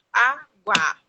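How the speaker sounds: loud child's call for water, imitated. Mother imitating her son loudly calling for water. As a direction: shout it out like a toddler asking for water.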